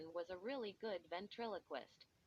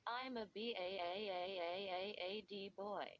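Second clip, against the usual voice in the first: donkey bray laugh; faster than usual. A narrator's reading. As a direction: stretch the A into a braying hee-haw. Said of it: "let out a long donkey laugh".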